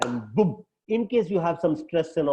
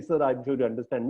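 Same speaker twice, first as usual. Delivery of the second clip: very nicely; 4 semitones lower than usual. Shown as a demonstration. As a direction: ease it out nicely and respectfully. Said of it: "Very nicely".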